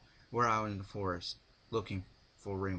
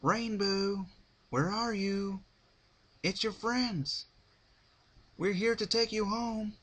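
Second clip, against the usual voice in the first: much higher, louder calling out; yelling Applejack; 12 semitones higher, 4 dB louder than usual. A narrator's reading. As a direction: call her name through the woods. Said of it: "yelled Applejack".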